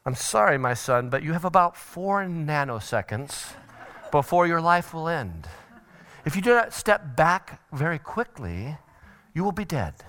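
absurdly calm parent in an emergency; mock calm. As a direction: understate the danger, softly and evenly. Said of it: "Do you calmly say".

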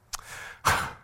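put-on exasperated teenage sigh; short, scornful exhale; teenage huff. Shown as a demonstration. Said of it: "it's this. Have you seen this one?".

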